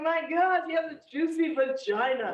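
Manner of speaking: half-hearted imitation of her bedroom scream; mild mock scream. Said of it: "you used to scream that all the time".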